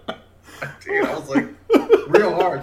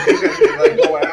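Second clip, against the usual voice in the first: high, louder imitation of a friend; lightly hammed-up Rick; mimicking Rick explaining car washing, high pitched; mock friend voice; 8 dB louder than usual. Imitating Rick's advice.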